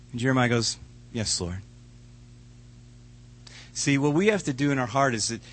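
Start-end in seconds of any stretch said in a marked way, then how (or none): 1.1-1.6 humble yes. Acted. Jeremiah submits.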